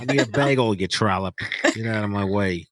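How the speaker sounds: lightly hammed-up New York accent; Kaz. Cohost riffing as Kaz to crack up the host, New York accent. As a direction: imitate a pushy New Yorker. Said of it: "Kaz is just like".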